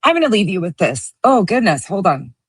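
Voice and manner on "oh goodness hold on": recovering from a choke; choking. Real, not acted. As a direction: struggle through a swallowed drink. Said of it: "It went down the wrong pipe".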